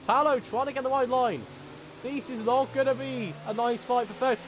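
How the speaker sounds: keyed-up motorsport commentator; excited race commentary. Real, not acted. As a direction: call the racing action with rising excitement. Live race play-by-play.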